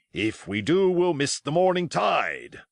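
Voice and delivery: lightly voiced sailor, rising in protest; Long John crying out. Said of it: "cried Long John".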